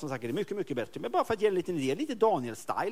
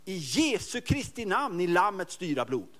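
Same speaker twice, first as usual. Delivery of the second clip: calling out; slower than usual. Shown as a demonstration. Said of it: "jag brukar ropa då".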